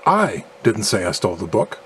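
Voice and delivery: "I" aan het begin met nadruk, rest vlak; stress on I. Shown as a demonstration. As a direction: leg de klemtoon op "I". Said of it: "implying that someone else stole the book".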